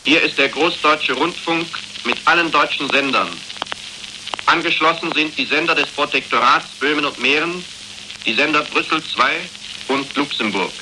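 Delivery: crackly archival broadcast. Real, not acted. Archival wartime radio broadcast.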